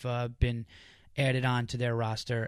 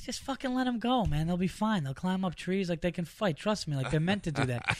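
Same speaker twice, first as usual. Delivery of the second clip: higher, breezy retelling of the manager's advice; mock-casual Chris; 5 semitones higher than usual. Comic imitating his manager telling him to free the cats, higher and breezy. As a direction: brush off the worry like it's nothing. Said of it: "He goes".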